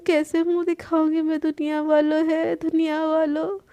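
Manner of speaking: overacted mock wailing, slowing on the cries; theatrical woe-is-me complaint; melodramatic lament. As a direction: ham up the fake distress. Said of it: "ऐसे बोल के ड्रामे करने लगती है".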